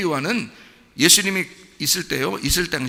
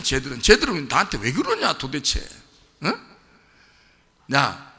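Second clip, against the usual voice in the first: mock disbelief. Jesus voiced mocking disciples' answers.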